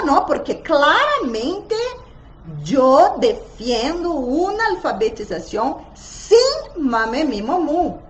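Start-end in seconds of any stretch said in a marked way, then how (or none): none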